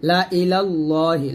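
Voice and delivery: লা ইলাল্লাহি with short la, long heavy Allah; no stretch on la. Shown as a demonstration. Teacher showing the extra alif, unstretched la in লা ইলাল্লাহি. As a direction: keep লা short, draw out the end of ইলাল্লাহি. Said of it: "লাতে টান দেওয়া যাবে না".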